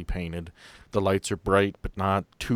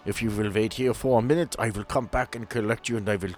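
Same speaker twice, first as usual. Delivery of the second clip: put-on German accent; 3 semitones higher than usual. Doctor answering the Dane's guess, light German accent. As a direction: play the German doctor, proud of his roots.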